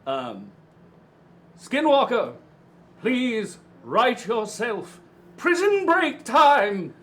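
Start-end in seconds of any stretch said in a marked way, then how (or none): 1.6-6.9 slow booming summons; dramatic loud call. Acted. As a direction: call it out slowly and loudly.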